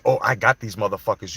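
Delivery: imitating her offhand boast, pitched low; low, casual mock quote; nonchalant. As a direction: mimic someone casually tossing it off, low. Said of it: "she said it so nonchalantly, like".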